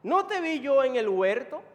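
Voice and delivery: loud, high challenge, rising at the end; Malchus's relative. Acted. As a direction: confront him as an eyewitness. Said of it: "le dice este hombre que era pariente de Malco".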